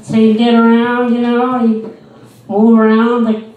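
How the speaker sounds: put-on high, loud condescending old lady; mocking a patronizing old lady at the mall. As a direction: talk down to him like a child, sugary and loud. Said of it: "I said".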